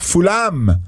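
correcting "Fulham" to a clear final A; pronounced with an A. Shown as a demonstration. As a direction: say "Fulham" ending in an open -am. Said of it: "C'est un A".

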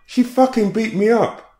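"she" hit highest, a high loud screamed accusation; a woman screaming at the police, "she" hit hardest; agitated scream. Retold or imitated. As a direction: punch "she" as you scream it. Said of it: "she screamed agitatedly".

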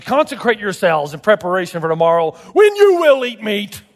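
God's stern command, hammering the last words; emphatic divine pronouncement. Shown as a demonstration. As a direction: punch out "when you will eat meat". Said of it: "it's stern, it's emphatic kind".

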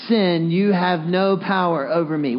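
slow, measured, each word drawn out; slow group recitation. Shown as a demonstration. Preacher leading the congregation in a declaration, slow and deliberate. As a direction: lead a room in saying it together slowly. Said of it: "let's all say it together corporately".

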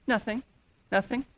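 quiet clipped denial, imitating a sulking spouse; mock evasive nothing. Offended spouse brushing off the question, soft evasive denial. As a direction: mutter it like you're hiding hurt.

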